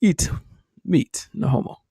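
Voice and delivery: lightly voiced Norse saga hero; a hint of a booming Viking; Norse mythology voice. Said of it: "Norse mythology voice on".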